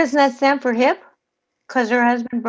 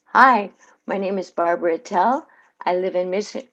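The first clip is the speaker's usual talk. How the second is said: ad read; 4 semitones lower than usual. Shown as a demonstration. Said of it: "Let's try it again".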